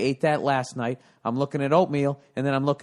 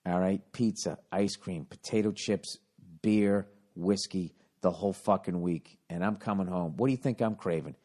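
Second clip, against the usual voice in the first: confessional; 8 semitones lower, 6 dB quieter than usual. Real, not acted. Confessing late-night cravings.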